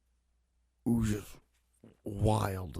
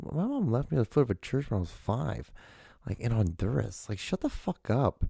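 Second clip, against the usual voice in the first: pitched-up, exasperated comeback; indignant retort; 5 semitones higher than usual. Retold or imitated. Answering commenters about family, pitched-up indignant retort. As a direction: put them in their place. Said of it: "I'm like".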